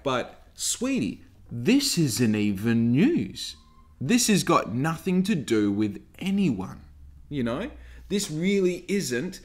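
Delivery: slow, patronising explaining; condescending sweetie. Retold or imitated. Vlogger mocking commenters, slow condescending sweetie. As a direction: talk down to them sweetly, slowly. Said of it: "you're like".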